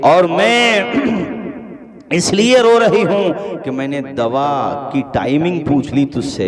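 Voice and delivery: preacher praising the mother at full force; full-force preaching. Acted. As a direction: thunder it out to the congregation.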